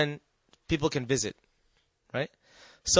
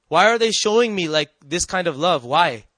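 angry confusion; 3 dB louder than usual. Retold or imitated. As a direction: question it in mild exasperation. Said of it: "And I was so confused".

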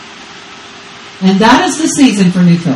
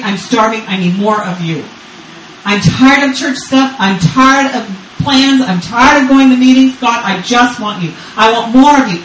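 desperate prayer; 3 semitones higher than usual. Retold or imitated. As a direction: beg God like a starving child. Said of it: "So you go screaming to God".

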